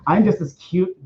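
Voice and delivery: lightly camp, gushing delivery; put-on flamboyant gushing. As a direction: gush with a touch of flamboyance. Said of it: "got into my really flamboyant".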